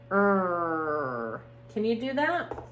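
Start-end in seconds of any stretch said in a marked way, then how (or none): 0.1-1.4 "Er" as a small growly er sound; teeny tiny tiger sound. Shown as a demonstration. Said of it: "teeny tiny tiger sound".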